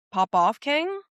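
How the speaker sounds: sassy cheer. Real, not acted. Cheering Kyle sarcastically.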